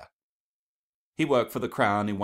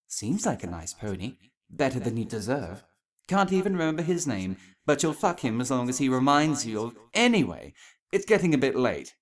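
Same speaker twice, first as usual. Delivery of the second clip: snide inner voice; 5 semitones higher, 5 dB louder than usual. Acted. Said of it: "she said suddenly".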